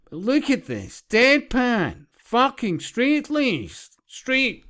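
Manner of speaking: astonished reaction. Retold or imitated. Quotes own astonished reaction.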